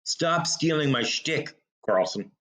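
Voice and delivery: ordinary delivery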